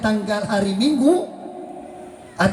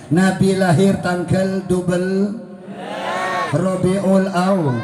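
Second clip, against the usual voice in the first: slow emphatic preaching; slower than usual. Real, not acted. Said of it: "slow emphatic preaching".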